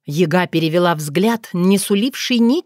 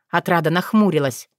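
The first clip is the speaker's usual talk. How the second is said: ordinary delivery, nothing marked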